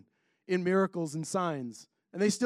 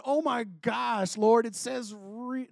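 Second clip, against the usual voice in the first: higher, drawn-out mock awe; mock amazement; 5 semitones higher, slower than usual. Preacher imitating someone seeing signs in the sky, mock amazement. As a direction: stretch out a playful gasp of wonder. Acting out seeing a sign overhead.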